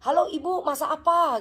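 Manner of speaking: lightly acted homecoming call; husband calling out. Husband calls out arriving home.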